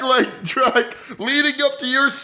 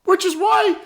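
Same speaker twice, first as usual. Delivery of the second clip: put-on higher, rambling old woman owning up with a laugh; old lady confessing; 5 semitones higher than usual. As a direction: confess as the doddering grandma, pitched up. Grandma character confesses to murder.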